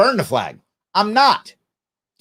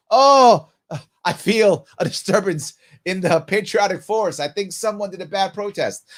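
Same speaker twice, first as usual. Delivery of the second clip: mock offended veteran. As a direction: lightly mimic a veteran sensing a disturbance. Mocking a hurt veteran.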